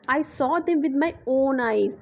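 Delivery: slow and deliberate, "own" weighted; stress on own. Shown as a demonstration. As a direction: lean on "own". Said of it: "यानी emphasise किस पे किया जा रहा है".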